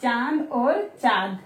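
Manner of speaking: "चांद" and "चाँद" said slowly, the nasal a set apart; slow contrast. Shown as a demonstration. Teacher contrasting two spellings for children, slowly. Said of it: "मुंह और नाक दोनों vibrate होते हैं".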